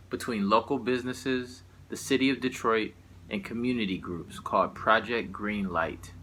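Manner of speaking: formal public-notice delivery; announcement read. Acted. Poet reading out a police partnership notice, formal announcer delivery. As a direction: read it out like an official press release.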